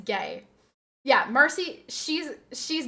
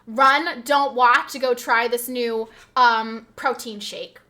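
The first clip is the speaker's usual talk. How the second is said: mock influencer; 7 dB louder, slower than usual. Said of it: "Instagram influencers coming up on my feed".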